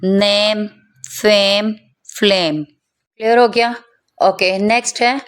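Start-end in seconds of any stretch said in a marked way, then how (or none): 0.0-2.6 नेम, फेम, फ्लेम with long "ey"; slow word list, stretch नेम, फेम, फ्लेम; "ey" sound drill. Shown as a demonstration. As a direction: separate words, held vowel in फेम. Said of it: "third पे हमने ए करके".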